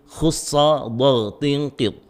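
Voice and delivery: slow, distinct "khussa dha tinqid" with heavy back-of-tongue sounds; thick emphatic letters. Shown as a demonstration. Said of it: "huruf-huruf yang dibaca tebal".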